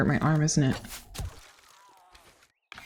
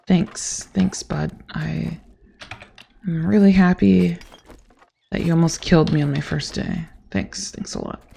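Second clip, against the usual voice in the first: dry fading sarcasm; sarcastic. Real, not acted. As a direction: thank them bitterly. Sarcastic thanks to dog.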